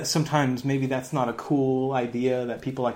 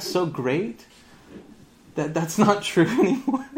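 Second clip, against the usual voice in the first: sarcastic; 7 semitones higher, 7 dB louder than usual. Real, not acted. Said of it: "I drip with so much sarcasm".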